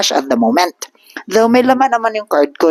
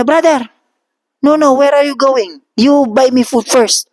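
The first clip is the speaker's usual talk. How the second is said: insistent demand; 8 semitones higher than usual. Retold or imitated. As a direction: press him hard to buy you food. Old man demands food first.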